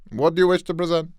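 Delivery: a commanding judge at a council hearing; Barty Crouch. Acted. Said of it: "Give me some good Barty Crouch".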